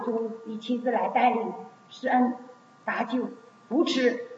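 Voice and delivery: earnest, projected public prayer in measured phrases. Real, not acted. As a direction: lead the congregation in prayer, pleading phrase by phrase. Leads congregational prayer.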